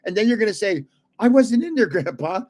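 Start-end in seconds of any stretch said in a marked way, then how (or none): 1.2-2.4 complaining entrant. Pretend. Voices a complaining future entrant.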